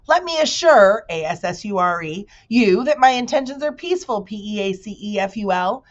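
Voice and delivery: high, loud, grand bee voice; proud spelling bee. Acted. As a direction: announce yourself like a showy insect. Bee character voice.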